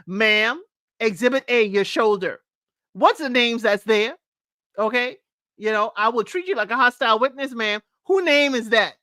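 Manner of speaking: lightly acted courtroom interrogator; mock-question a witness on the stand; cross-examining lawyer. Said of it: "Vince was acting and she was on the witness stand".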